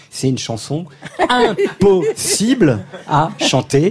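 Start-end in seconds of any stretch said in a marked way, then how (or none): 1.1-3.9 laughing through the words. Real, not acted. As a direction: giggle while you say it. Host laughs about the tongue-twister song.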